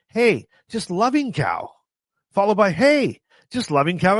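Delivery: exasperated retelling. Retold or imitated. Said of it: "exasperated retelling of repeated text".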